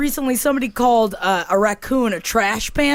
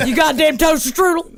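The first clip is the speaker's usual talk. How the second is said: redneck southern yell; southern accent; 4 semitones higher than usual. Shown as a demonstration. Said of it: "You just say it in a southern accent".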